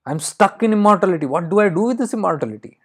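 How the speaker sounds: high-pitched, acted exasperation; exasperated despair. Crow stuck in immortality, pleading with no way out, exasperated despair.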